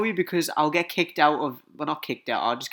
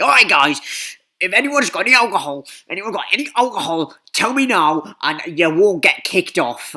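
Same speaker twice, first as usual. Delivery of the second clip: loud, raised announcement to a group; high, shouted instructor's warning; instructor calling out; 5 semitones higher, 8 dB louder than usual. Retold or imitated. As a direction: call it out to a whole busload. Instructors address the whole bus.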